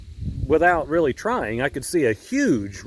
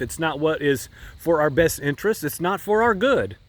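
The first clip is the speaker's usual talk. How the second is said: preaching; 2 semitones higher than usual. Acted. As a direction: drive the lesson home to the flock. Preaching point to listeners.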